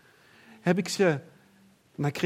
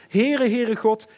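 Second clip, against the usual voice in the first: loud proclamation; 5 semitones higher, 8 dB louder, slower than usual. Acted. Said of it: "waarna we vaak stoppen".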